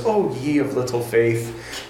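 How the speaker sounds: mild, calm reproach; understated serene delivery; peaceful voice. Acted. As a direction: say it gently and evenly. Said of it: "Jesus says in a peaceful voice".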